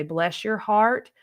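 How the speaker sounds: slow, put-on Southern drawl on Bless your heart; a light imitation of a slow Alabama Southern accent. Alabama locals greeting strangers, a slow mock Southern drawl. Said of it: "they're gonna talk real slow".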